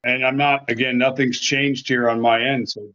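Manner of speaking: fading muffled audio; like through a wall. Real, not acted. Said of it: "you start strong and then you just".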